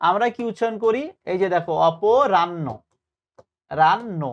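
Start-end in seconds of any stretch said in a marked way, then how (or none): 1.9-4.2 অপরাহ্ন with the h lost into a double n; common mispronunciation. Shown as a demonstration. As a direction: say অপরাহ্ন slowly as aw-po-ran-no, then repeat রান্ন. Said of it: "কি এরকম ভুল উচ্চারণ করি কিনা".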